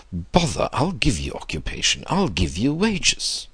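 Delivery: put-on testy old gentleman, pitch climbing at the end; impatient old man. Old man offering Max work, impatient and insistent. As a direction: brush the objection aside, insistent. Voices Mister Sloane in narration.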